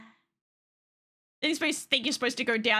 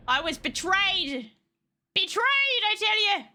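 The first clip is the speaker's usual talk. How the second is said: hammed-up betrayal; 5 semitones higher than usual. Mock dramatic betrayal.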